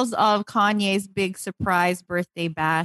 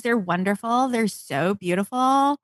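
lightly voiced celebrity gushing; Kim. Showing how Kim talks in her shoe stories, light celebrity impression. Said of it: "That's how she talks".

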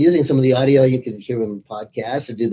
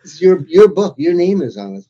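louder, pushing someone to read their own book; mild mock insistence, growing louder; exasperated urging; 4 semitones higher, 5 dB louder than usual. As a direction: come on, it's your book, step it up. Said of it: "They say".

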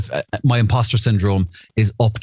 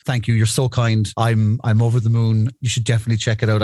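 gracious salesman. Retold or imitated. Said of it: "do the whole".

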